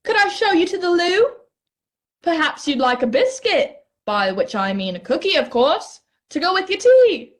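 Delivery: put-on high, posh-butler British accent. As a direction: play a fussy English host. Mock British butler lines.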